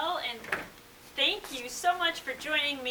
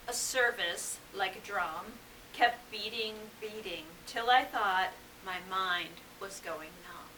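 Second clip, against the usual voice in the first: measured, solemn poem recital; poetry reading; 4 semitones lower, 4 dB quieter than usual. Acted. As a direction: read the poem gravely, pausing between phrases. Reads Dickinson poem aloud.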